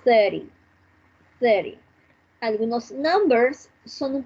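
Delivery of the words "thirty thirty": "thirty" punched on "thir", falling away; first-syllable stress. Shown as a demonstration. Teacher modelling the tens for students, "thirty" front-stressed. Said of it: "we are going to emphasize the first syllable".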